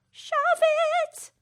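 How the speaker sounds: sudden high, loud cheeky jab; playful outburst. Real, not acted. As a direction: blurt it out defiantly. Defiant sign-off to listeners.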